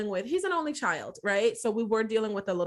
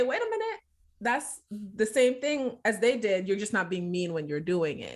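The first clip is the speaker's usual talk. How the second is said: sudden realization. Retold or imitated. Catching herself repeating her parents, surprised. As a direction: stop herself mid-thought, startled. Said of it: "But then I had to say".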